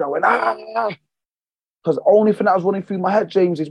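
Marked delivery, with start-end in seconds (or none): 0.2-1.0 a half-voiced echo of the scream; mild mock scream. Retelling his scream after closing the gym, mild mock anguished cries. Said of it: "And I just fucking screamed".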